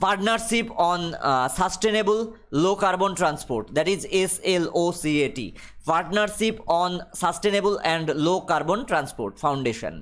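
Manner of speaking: reads the English line very slowly, word by word; slow dictation reading. Acted. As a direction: spell it out for the class at dictation pace. (ধীরে ধীরে ইংরেজি পাঠ)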